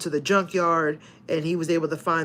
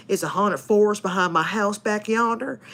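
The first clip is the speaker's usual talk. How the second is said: mock Southern accent. Shown as a demonstration. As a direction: play up a Southern US accent, half-joking. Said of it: "I just got hella southern".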